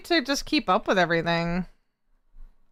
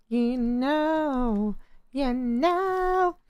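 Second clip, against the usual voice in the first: mock shy denial; 4 semitones higher, much slower than usual. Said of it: "You guys are making me blush".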